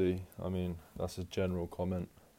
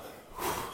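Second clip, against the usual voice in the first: breathless sigh; 4 dB quieter than usual. Real, not acted. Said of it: "sorry, out of breath".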